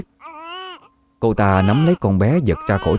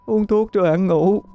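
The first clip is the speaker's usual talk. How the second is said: high, soft, halting words through tears; grieving mother murmuring to her dead baby, tearful; broken, tearful voice; 11 semitones higher, 4 dB quieter than usual. Acted. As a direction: coax a dead child gently, voice breaking. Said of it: "Giọng cô đứt quãng xen lẫn với tiếng khóc".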